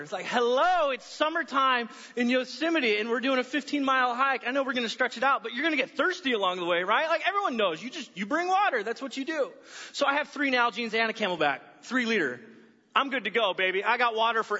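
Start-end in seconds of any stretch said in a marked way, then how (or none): 0.3-9.5 incredulous exasperation. Retold or imitated. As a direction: state the obvious as if stunned anyone missed it. Mock exasperation at an underpacked hiker.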